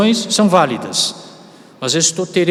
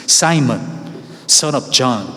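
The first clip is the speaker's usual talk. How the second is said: English read aloud; slower than usual. Shown as a demonstration. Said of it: "minha pronúncia em inglês".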